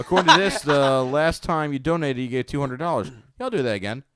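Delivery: laughing through the words. Retold or imitated. Retelling a surprising call.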